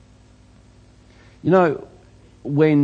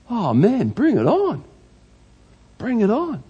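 bring it on; 5 semitones higher than usual. Real, not acted. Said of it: "preacher embracing suffering".

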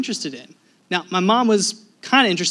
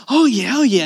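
mildly hyped-up imitation, pitched up; super excited; 5 semitones higher, 5 dB louder than usual. Wife near her favorite player, super excited. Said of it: "Claire's, like, super excited".

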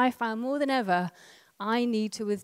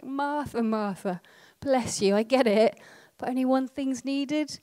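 gentle Jesus; 4 semitones higher than usual. Retold or imitated. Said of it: "but so gently".

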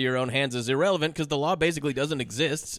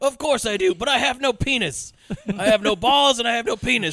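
higher, whiny mock lament, quick in places; whiny complaint; 6 semitones higher, 3 dB louder than usual. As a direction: whine like a helpless cop. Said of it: "he's like".

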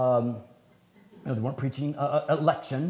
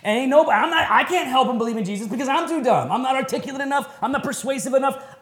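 high and loud, words breaking into laughter; laughing at himself; 8 semitones higher, 4 dB louder, faster than usual. Real, not acted. Laughing at himself while telling listeners he is too dumb. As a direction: chuckle through the self-deprecating line. Self-mocking aside about being dumb.

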